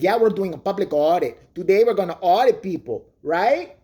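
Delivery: lightly voiced stereotypical Mexican auditor; mock auditor accent. Imitating the auditor boasting to his camera, mock accent. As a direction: play the smug cholo bragging about YouTube.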